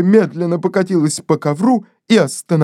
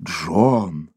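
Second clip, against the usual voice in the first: urgent call. Acted. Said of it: "вскричал мистер Дедал".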